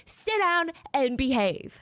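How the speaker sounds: slow, firm mock telling-off; angry captain. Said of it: "starts screaming at him".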